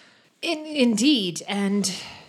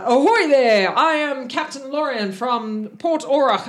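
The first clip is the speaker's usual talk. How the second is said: raised, higher captain's hail; captain calling out; 5 semitones higher, 5 dB louder than usual. Acted. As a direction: hail someone over the side. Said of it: "he looks over the side".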